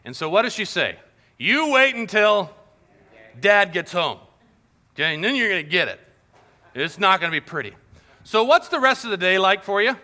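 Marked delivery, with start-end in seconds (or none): 1.4-7.7 mom's warning. Retold or imitated. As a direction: warn the child what's coming. Mom threatening a naughty kid.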